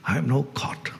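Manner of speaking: whispered to oneself in sudden realization. Acted. Seeker realizing he is caught, whispered. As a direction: breathe it as a hushed discovery.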